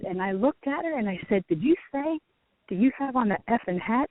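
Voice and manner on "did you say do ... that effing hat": nervous question. Retold or imitated. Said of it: "like, nervous".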